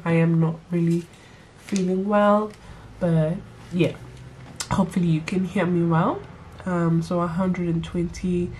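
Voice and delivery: stuffy nose from a cold; speaking with a blocked nose; nasal voice. Real, not acted. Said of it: "Sorry guys if I sound nasally".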